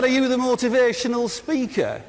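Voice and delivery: exaggerated Brummie accent, high-pitched question; Birmingham accent. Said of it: "who's got a Birmingham accent".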